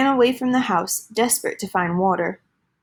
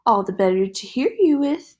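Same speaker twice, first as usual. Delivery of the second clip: high funny voice. Acted. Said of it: "in his high, funny voice".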